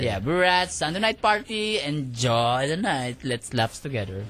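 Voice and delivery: party emcee. Pretend. Plays emcee introducing a band.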